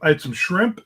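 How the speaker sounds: whistling s through tooth gap; missing front teeth. Real, not acted. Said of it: "teeth whistle when I say shrimp".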